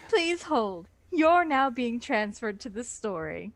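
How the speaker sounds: lightly voiced call-centre agent putting you on hold; customer service hold message. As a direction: sign off like a phone agent transferring a call. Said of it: "customer service-ish".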